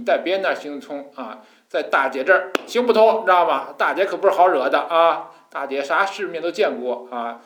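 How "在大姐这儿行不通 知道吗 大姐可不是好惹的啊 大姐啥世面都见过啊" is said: louder, slightly raised big-sister swagger; mock tough boast. Big sister warning a bully she's no pushover, mock tough. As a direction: play at warning someone off.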